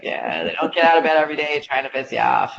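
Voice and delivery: put-on the old boss in a Boston accent; a hint of his Boston accent. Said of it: "I hear his voice in my head".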